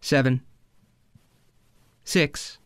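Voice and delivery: lightly put-on hypnotist, long pauses; unhurried spoof meditation guide; mock hypnosis countdown. Takes over the mock countdown.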